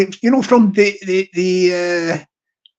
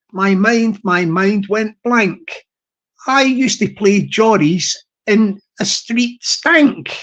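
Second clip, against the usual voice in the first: spoken verse; slower than usual. Shown as a demonstration. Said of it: "I'll just say it. I won't sing it".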